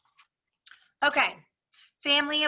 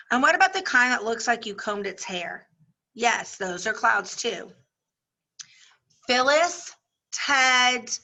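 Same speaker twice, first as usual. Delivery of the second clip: lively classroom read-aloud with voiced characters; story read aloud. Teacher reading a chapter to her class, lively read-aloud. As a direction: read it out to the class, giving each girl her voice.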